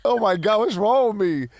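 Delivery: shocked shout. Real, not acted. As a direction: yell it in delighted disbelief. Shocked at friend's embarrassing story.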